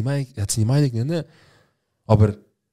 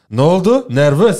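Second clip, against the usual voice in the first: loud, high startled cry about the spider; real nervous shout; real spider panic; 7 semitones higher, 9 dB louder, much slower than usual. Real, not acted. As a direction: yelp it as the spider drops toward you. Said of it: "die Spinne macht mich nervös".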